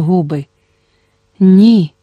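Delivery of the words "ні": a firm, louder no; louder, firm refusal. A narrator's reading. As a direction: say it out loud for the visitor to hear. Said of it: "сказала жінка голосно".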